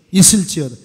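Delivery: loud, falling shout; shouted proclamation. Acted. Pastor shouting the blessing over the church, loud. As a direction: ring it out to the room.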